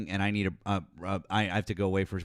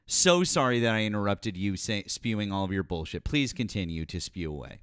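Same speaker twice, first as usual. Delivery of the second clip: sarcastic apology; 2 semitones lower than usual. Real, not acted. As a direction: hand the floor back with scornful courtesy. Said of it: "why you're being sarcastic".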